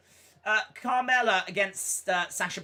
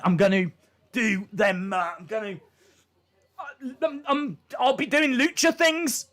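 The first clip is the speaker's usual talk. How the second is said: fired-up wrestler; 4 semitones higher, 4 dB louder than usual. Retold or imitated. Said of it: "he's so fired up and he's like".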